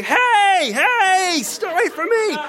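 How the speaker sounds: high, loud frantic hey; panicked yelp. Retold or imitated. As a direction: flail and warn them off in a panic. Mummy panics at strange kids.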